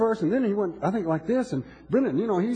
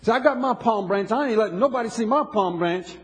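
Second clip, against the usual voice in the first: mocking stubborn churchgoer; 4 semitones higher than usual. Preacher mocking a churchgoer who refuses to praise, sarcastic and defiant. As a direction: ham up the stiff member who won't praise.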